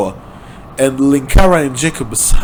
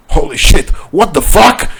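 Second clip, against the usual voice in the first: dumbfounded; 6 semitones higher, 4 dB louder than usual. A narrator's reading.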